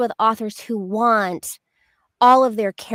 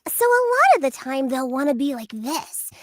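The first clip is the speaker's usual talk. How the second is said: lightly sweet toy witch; a touch of sugary witch; 4 semitones higher than usual. Shown as a demonstration. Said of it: "let's hear it".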